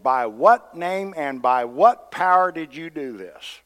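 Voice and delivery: slow, loud, emphatic demand. Acted. Leaders questioning Peter and John in court, demanding. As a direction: press each question like an interrogator. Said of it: "and it said they demanded".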